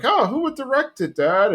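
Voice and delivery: high, eager question; lightly voiced eager kid. Bobby asking Hank at dinner, a light high kid voice. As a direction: ask it keen and impressed.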